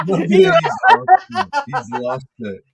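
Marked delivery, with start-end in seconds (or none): 0.0-1.5 high, loud words through laughter; cracking up while talking; helpless laughter; laughing hard. Real, not acted. Laughing fit at the clip.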